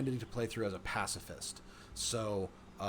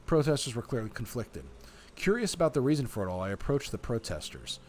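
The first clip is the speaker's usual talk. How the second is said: measured, expressive read-aloud; story narration; 3 dB louder than usual. A narrator's reading. Player reading the game's story to viewers, story narration. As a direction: narrate it like an audiobook.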